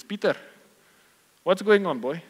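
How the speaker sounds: a boss catching someone out; stern king summons. Acted. King confronting Peter, loud and stern.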